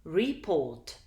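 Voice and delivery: "Report" stressed on its last syllable; stress on second syllable. Shown as a demonstration. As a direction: say "Report", leaning on "port". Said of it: "second syllable is more prominent".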